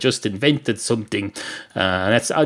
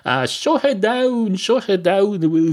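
much higher, yelling impression of an irate TV chef; Gordon Ramsay shouting; 9 semitones higher, slower than usual. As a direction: explode like a furious chef shutting a kitchen. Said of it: "They'd be like Gordon Ramsay".

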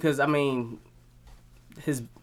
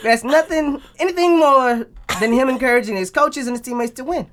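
sports agent voice; 2 semitones higher than usual. Pretend. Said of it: "We didn't say ad lib".

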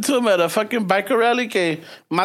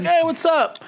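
high-pitched courtesy greeting; polite fake recognition; 9 semitones higher, slower than usual. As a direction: act like you know them, voice pitched up. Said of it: "you try to be polite".

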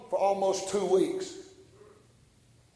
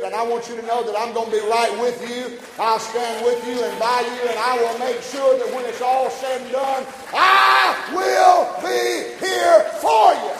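promise building to shout; 3 semitones higher, 6 dB louder than usual. Acted. Preacher voicing the Spirit's promise to stand by him, building to shout.

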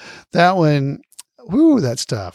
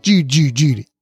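a light imitation of Goober doing Cary Grant; Goober's Cary Grant; 2 semitones lower than usual. Host imitating Goober's Cary Grant bit for listeners, lightly voiced. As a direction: clip the names short, the way Goober does. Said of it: "I was having a hard time not reading it like that".

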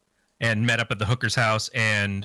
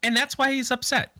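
much higher, mock-pitying voice; mock sympathetic; 12 semitones higher than usual. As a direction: sound falsely sorry for him.

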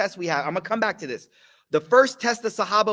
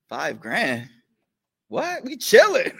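mom laughing it off; slower than usual. Retold or imitated. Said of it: "My mom used to be like".

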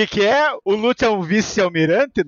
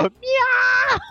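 cat meow. Retold or imitated. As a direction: yowl like a scared cat. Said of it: "Rob Lute falou".

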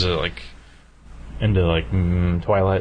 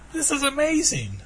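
high, squealing woman's voice; man doing a high woman's voice; lady voice. Pretend. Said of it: "That's my lady voice".

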